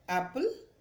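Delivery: एप्पल with a short clipped a; short a in apple. Shown as a demonstration. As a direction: say एप्पल with a quick short vowel. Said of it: "short sound में है". (छोटी ध्वनि में एप्पल)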